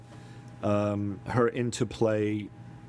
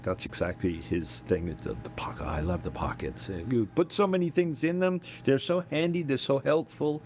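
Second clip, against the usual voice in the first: put-on Russian accent; 3 semitones higher than usual. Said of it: "if I spoke in a Russian accent".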